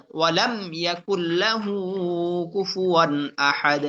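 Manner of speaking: slow, measured tajweed chant; Quran recitation. Shown as a demonstration. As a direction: recite with drawn-out vowels. Recitation demo.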